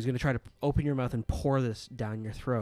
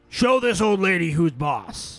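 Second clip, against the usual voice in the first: shrill, very loud, full-throated yell; 6 semitones higher, 10 dB louder than usual. Narrating a game, voicing someone heard from upstairs: shouting. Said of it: "you hear someone shouting out".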